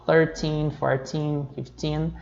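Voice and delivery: "thirteen, fourteen, fifteen" stressed on the last syllable; "thirteen, fourteen, fifteen", each ending in a long stressed "teen". Shown as a demonstration. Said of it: "a sílaba tônica é o teen".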